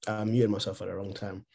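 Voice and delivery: talking while chewing cashews; mouth full. Real, not acted. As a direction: talk through a mouthful of nuts. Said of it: "I'm chewing cashews".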